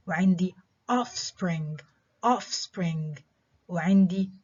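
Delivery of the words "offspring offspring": "offspring" modelled twice, stressed on OFF; first-syllable stress. Shown as a demonstration. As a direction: hit the first syllable of "offspring", then repeat. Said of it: "examples of stress on the first syllable".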